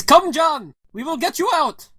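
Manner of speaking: put-on high, urgent Russian accent; hearty Russian resistance fighter calling. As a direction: call out as a Russian rescuer. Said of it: "He says, [...] It's Russian Buddy".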